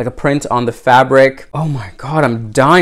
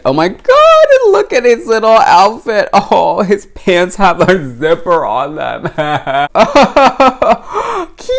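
excited squeal; 7 semitones higher than usual. Real, not acted. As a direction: gush over every tiny detail. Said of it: "getting so excited".

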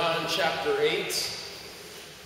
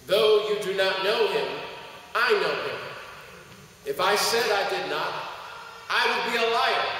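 preaching scripture reading; 3 semitones higher than usual. Acted. Pastor reading John to the church, preaching voice. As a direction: proclaim the text to the church. Pastor reads Jesus' reply.

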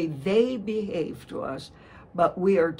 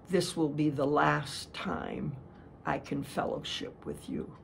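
sweet soft voice; 7 dB quieter than usual. Retold or imitated. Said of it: "very sweet, soft voice".

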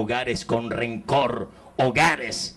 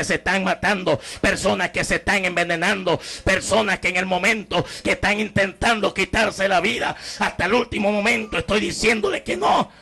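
rising higher into a shout; preaching climax; 5 semitones higher than usual. Real, not acted. Preacher describing the dying, building to a shout. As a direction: build to a pleading cry.

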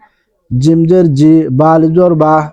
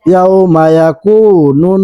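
slow recitation; slower than usual. Shown as a demonstration. Recites verse again.

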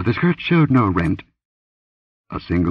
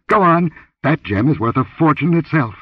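much higher, louder command; barked order; 9 semitones higher, 3 dB louder than usual. Acted. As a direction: order her off sharply. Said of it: "he commanded".

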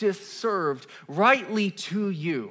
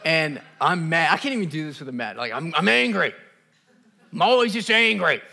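mock angry God; 2 semitones lower than usual. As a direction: play a sulking, angry God on his throne. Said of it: "I'm gonna play God".

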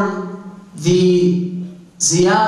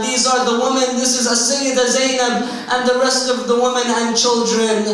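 higher, urgent preacher's recital; impassioned retelling; 7 semitones higher than usual. Retold or imitated. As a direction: announce the holy family's arrival in a raised pitch.

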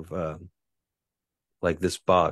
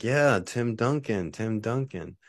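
slow, higher eager Tim Duncan; eager agreement; 5 semitones higher, slower than usual. Retold or imitated. Me agreeing with the Micronesians, eager and slow. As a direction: nod along eagerly, relieved. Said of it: "And I was like".

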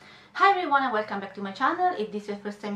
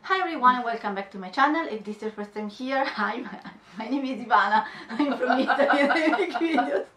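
intro cracking into laughter; can't keep a straight face; laughing. Shown as a demonstration. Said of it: "Perché ridi?". (intro che si rompe in una risata)

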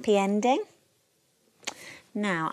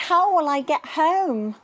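frightened cry; 7 semitones higher, 6 dB louder than usual. Acted. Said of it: "he cried".

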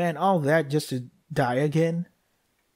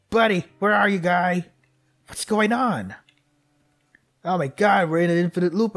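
rising panic; 2 semitones higher than usual. Real, not acted. Panicked search for baby.

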